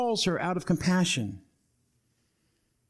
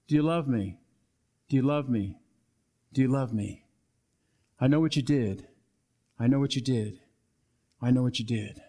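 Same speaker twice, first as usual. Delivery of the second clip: gentle questioning; 6 semitones lower than usual. Acted. Jesus asks Peter if he loves him, gentle and low. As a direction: ask it gently, pitched low, letting each repeat land.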